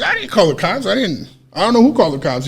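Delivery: high-pitched retold protest; mock-defensive, pitch jumping up; protesting denial. Protests an accusation in retold quarrel.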